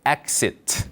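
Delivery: "Exit" in careful English, crisp final t; English pronunciation. Shown as a demonstration. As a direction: model "Exit" as two clear syllables, falling. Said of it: "한 번만 더요".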